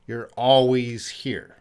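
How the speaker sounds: ALWAYS punched, slow delivery; emphasis on always. Shown as a demonstration. Teacher explaining that you never leave, stressing ALWAYS. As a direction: hit "always" firmly and take it slowly. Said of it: "You want to emphasize that you never leave".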